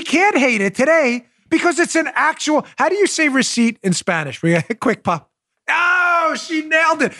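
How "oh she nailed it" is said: high, drawn-out "oh" of triumph; excited cheer. Pretend. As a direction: cheer like she just aced a pop quiz. Cheers co-host's quick-quiz answer.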